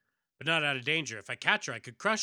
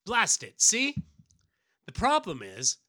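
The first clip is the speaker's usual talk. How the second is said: frustrated hero; 8 semitones higher, 7 dB louder than usual. Acted.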